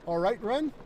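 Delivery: a British greeting; a lightly put-on British accent, tossed off casually. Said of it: "forgive my British accent".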